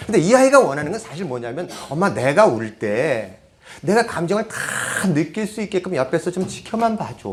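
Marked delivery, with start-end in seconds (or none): 1.9-7.3 put-on child's inner plea. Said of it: "이 표현을 하고 있는 거예요".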